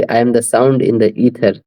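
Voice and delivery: reading the verse line very slowly. Shown as a demonstration. Teacher rereading the verse to explain sound, very slowly. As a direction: read it again, each word slow and deliberate. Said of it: "teacher rereads verse slowly".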